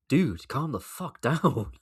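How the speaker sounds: slow, loud, laughing disbelief; exasperated laugh. Real, not acted. Vlogger reacting to Russell's statement, laughing in exasperation. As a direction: laugh it out at him, slowly.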